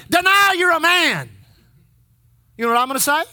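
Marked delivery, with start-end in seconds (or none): 0.1-1.3 raised, higher commanding voice; acted gunman's demand. Preacher plays gunman challenging his identity, acted demand. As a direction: act out a demand at gunpoint. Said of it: "you aim it at me and you say".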